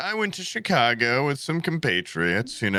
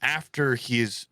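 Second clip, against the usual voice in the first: incredulous rant; 2 semitones higher than usual. Retold or imitated. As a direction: drag it out in disbelief. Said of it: "I was the only one going".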